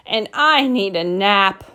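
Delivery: mild weary moan; understated exhausted complaint. Acted. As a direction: say it as a worn-out mama. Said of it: "moaned Mama".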